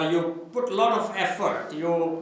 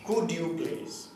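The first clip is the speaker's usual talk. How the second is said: slow polite request; 6 dB quieter than usual. Shown as a demonstration. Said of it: "Remember this".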